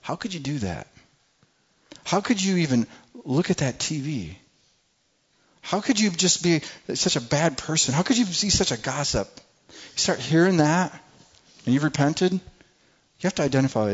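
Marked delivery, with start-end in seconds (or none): 0.0-9.3 accusing inner voice. Retold or imitated. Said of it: "that voice that sounds like that".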